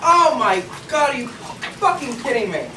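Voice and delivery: exasperated outburst. Acted.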